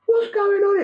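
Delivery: high startled cry; shocked shout. Retold or imitated. A bystander reacting to the accident, high alarmed shout. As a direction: yell out in alarm.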